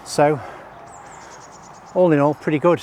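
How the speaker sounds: breathless after walking; out of breath. Real, not acted. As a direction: talk while out of breath. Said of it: "as I'm out of breath".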